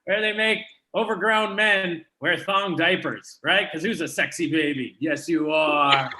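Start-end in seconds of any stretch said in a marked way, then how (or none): 3.8-6.1 put-on baby talk.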